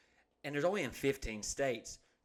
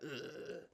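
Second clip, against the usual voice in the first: disgusted groan; 11 dB quieter than usual. Retold or imitated. Man scooping up a dead chipmunk, squeamish groan. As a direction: groan softly in mock disgust.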